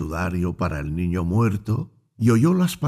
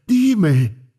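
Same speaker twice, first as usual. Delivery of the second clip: higher and louder anguished cry of Dime; 11 semitones higher, 5 dB louder than usual. A narrator's reading. Grieving mother begs the doctor, louder cry. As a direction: push the second dime up into a cry. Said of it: "gritó al médico diciendo".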